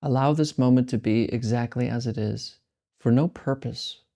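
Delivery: slow, calm meditation guidance with long pauses; guided meditation. Acted. Teacher guides listeners through meditation, slow and calm. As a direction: ease listeners into letting go.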